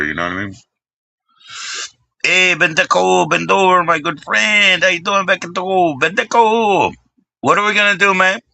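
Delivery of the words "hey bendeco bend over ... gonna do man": high, playful calling out to a friend; teasing sing-song call. Acted. Streamer calling out to a friend in chat, high playful teasing.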